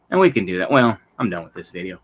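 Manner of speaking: doubled audio echo; echo from second device. Real, not acted. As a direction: voice echoing from another device. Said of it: "sorry for the double audio here".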